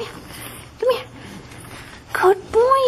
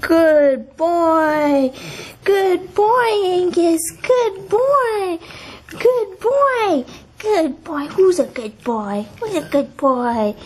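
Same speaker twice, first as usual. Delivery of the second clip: talking to a dog; slower than usual. Real, not acted. Praising dog.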